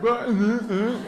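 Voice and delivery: hammed-up bewilderment; mock confusion. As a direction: act confused, with wordless little noises. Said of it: "makes people so confused".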